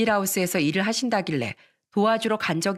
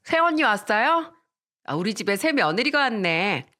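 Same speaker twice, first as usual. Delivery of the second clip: lightly mocking sister-in-law greeting, pitched up at first; hint of delinquent swagger; gum-chewing sister-in-law. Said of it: "껌을 씹으며 말하더라고요".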